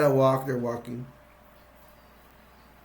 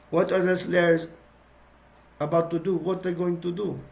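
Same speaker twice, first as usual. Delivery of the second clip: put-on Italian accent; 2 semitones higher than usual. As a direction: ask it in a breezy Italian accent. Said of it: "This is my Italian voice".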